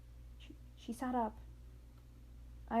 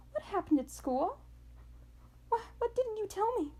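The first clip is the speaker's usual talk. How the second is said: shouting; 11 semitones higher than usual. A narrator's reading. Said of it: "shouting to be heard".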